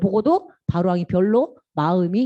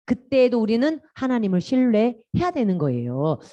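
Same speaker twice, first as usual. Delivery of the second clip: ordinary talk, nothing marked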